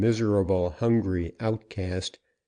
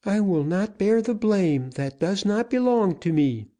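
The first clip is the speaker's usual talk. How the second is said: much higher, firm female voice; firm woman's voice; 11 semitones higher than usual. A narrator's reading. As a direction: stand your ground as Susana. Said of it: "her voice firm".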